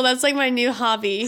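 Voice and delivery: talking through laughter; shared giggles; laughing. Real, not acted. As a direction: laugh out the words. Both laughing hard.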